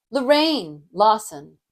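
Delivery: slow "Lorraine Lawson", weight on a stretched "Lorraine"; measured "Lorraine Lawson" with first name stressed; name with varied melody. Shown as a demonstration. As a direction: draw out "Lorraine", then set "Lawson" apart. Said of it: "I can play with different melodies".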